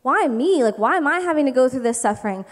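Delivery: mock complaint to God. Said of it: "being like".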